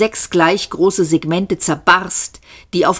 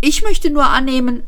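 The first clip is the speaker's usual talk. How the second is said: high-voiced Arthur; 7 semitones higher, 3 dB louder, faster than usual. A narrator's reading. Alarmed Arthur speaks in story.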